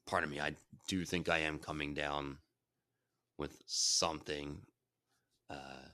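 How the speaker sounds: stuffy nasal voice from a head cold. Real, not acted. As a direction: talk through a congested nose. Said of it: "So if I sound nasally".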